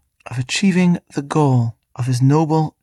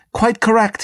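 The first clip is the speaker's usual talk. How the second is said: high-pitched, triumphant storybook exclamation; triumphant shriek; 8 semitones higher, 4 dB louder than usual. A narrator's reading. Demon confirming Milo's guess, triumphant shriek. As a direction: shriek it in triumph, as a reader would. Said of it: "he shrieked triumphantly".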